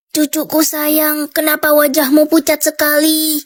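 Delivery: lightly voiced sickly granny, worried; frail grandma.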